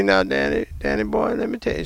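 soft, tender telling-off; loving grandmother. Retold or imitated. Grandmother gently telling her grandson, lovingly soft. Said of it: "say it so lovingly".

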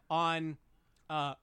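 burping mid-sentence from coffee; a burp slips out between words. Real, not acted. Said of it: "I don't know why I keep burping".

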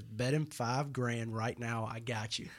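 soft, slow side-mouth tip; hushed aside. Retold or imitated. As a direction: slip it to him so Matt can't hear. Secret aside across the table.

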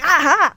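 mock groan of pain; imitated pained groan. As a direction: groan as if imitating a hurting patient. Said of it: "groaning in pain".

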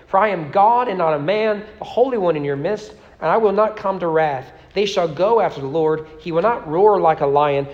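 reading scripture aloud with rising fervor. Acted. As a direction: give the prophet's words full, ringing weight. Reads Hosea aloud to congregation.

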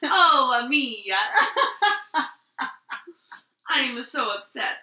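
mock lament on request. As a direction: replay the fake Italian wail as asked. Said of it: "Do it again".

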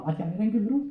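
high, cheeky ventriloquist puppet voice; puppet character. Acted. Puppet correcting its handler, high comic voice.

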